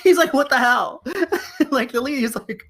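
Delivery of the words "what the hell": high mock-alarmed outburst; comic fright with a laugh in it; terrified grocery boy. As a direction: blurt it as the startled kid, half laughing. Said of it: "He looks terrified".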